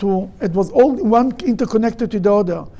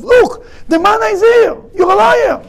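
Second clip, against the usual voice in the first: high-pitched indignant outcry; accusing shout; 10 semitones higher, 3 dB louder than usual. Acted. Accuser confronts a man over the manna, high accusing shout. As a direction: cry it out like catching someone lying.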